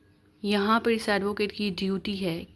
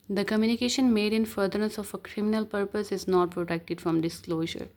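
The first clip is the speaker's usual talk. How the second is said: slow, deliberate reading of legal text; measured recital of the law; reading the statute; much slower than usual. Acted. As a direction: read each word out slowly like dictation.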